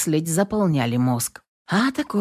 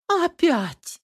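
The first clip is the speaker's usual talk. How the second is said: a high, outraged "Опять!"; indignant cry; 12 semitones higher than usual. A narrator's reading. Neighbour on the balcony, fed up. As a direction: throw up your hands at "Опять!". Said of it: "возмутились с балкона".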